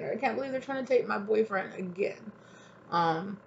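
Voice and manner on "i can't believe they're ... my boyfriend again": mock whiny lover. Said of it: "is what I'm hearing".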